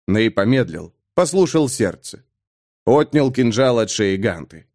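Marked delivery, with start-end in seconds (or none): none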